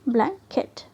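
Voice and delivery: ब्लैंकेट broken in two, a short gap after the first syllable; split into syllables. Shown as a demonstration. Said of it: "हमें split करना है". (ब्लैंकेट को दो syllable में तोड़कर)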